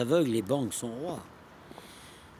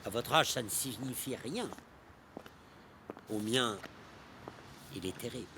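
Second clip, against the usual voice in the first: hushed dread; 7 dB quieter than usual. Acted. Poet confiding to his young companion how death dawns, hushed dread. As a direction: let the voice sink softly into bleak reflection.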